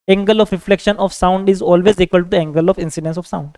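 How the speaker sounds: very slow, word by word for copying; measured note-dictation voice. Acted. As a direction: dictate it so students can write it down. Teacher dictates notes in English.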